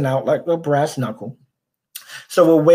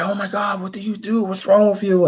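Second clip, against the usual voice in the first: higher-pitched imitation of a shocked adult; lightly acted dismay, pitched up; retold alarm; 5 semitones higher than usual. Adult school monitor to the boy after the attack, retold alarm.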